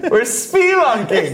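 slow, echoing spelunker call; cave echo. Pretend. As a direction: stretch it out like in a cave. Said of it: "I'm in a cave".

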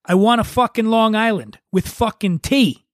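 retold yell. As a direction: yell it at the bartender. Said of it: "he yelled".

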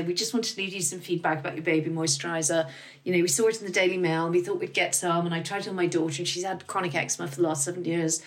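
high, emotional caller voice; imitating a tearful customer. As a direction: play the grateful mum choking up on the phone. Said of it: "people would phone up and say".

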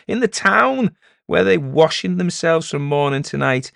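high, loud, mounting ridicule; scornful village elder. Acted. Elder ridiculing the peddler and townsfolk, scornful. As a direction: play to the crowd with hearty mockery.

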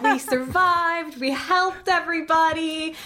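dreamy Savarite. Retold or imitated. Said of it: "She's like".

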